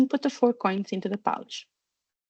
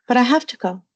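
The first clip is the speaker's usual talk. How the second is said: louder, mildly tearful protest; 3 semitones higher, 5 dB louder, faster than usual. A narrator's reading. Daughter insists to parents she must go, tearful. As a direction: protest on the edge of tears. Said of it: "Hermione burst into tears".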